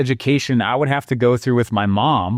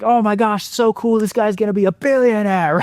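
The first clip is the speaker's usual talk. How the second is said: mock excitement; 7 semitones higher than usual. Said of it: "our mentality is like".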